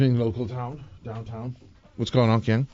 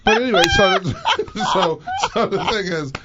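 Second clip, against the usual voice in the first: laughing while talking; 9 semitones higher than usual. Real, not acted.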